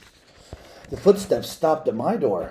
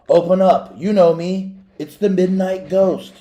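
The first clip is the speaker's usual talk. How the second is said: much higher and louder, pounding on the door; loud demand; 7 semitones higher, 9 dB louder than usual. Acted. Man at the door demanding to be let in, loud call. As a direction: shout it through the door to scare them.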